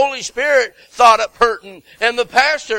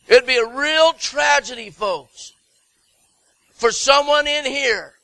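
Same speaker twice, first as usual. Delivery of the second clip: rising, louder preaching build; fiery preaching; 2 semitones higher, 4 dB louder than usual. Acted. Preacher warning the congregation of hell, rising and louder. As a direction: preach it to the whole church, building to a peak.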